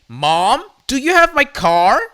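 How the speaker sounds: alarmed demand. A narrator's reading. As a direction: demand an answer, rising in alarm. Daughter finds her car gone.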